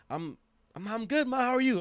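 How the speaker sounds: very high, squeaky mock-cheerful voice; faking being fine. Hiding his upset from Mama, high and falsely fine. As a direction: overdo a high-pitched show of being okay.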